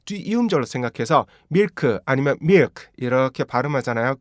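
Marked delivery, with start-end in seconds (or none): 1.5-2.8 밀크 as Korean syllables, drawn out; wrong Korean-style milk. Shown as a demonstration. Teacher shows learners the wrong way, Korean pronunciation. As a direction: say "밀크" with separate Korean sounds. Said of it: "절대 제대로 발음 안 되고요".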